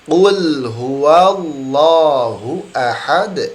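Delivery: 'Qul huwallahu ahad' very slow, drawn out, reciting; correct recitation. Shown as a demonstration. Teacher reciting the correct verse slowly for the class. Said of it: "Saya ulangi".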